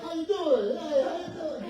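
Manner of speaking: high, loud, laughing how-you-doing; booming friendly hello; hearty greeting. Retold or imitated. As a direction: greet him like an old buddy. His own greeting to husband, retold.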